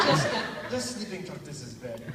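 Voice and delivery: put-on a light Russian accent, barely shifted; half-hearted Russian accent for the roommate. Quoting the Russian stranger, light Russian accent. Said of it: "I'm Russian".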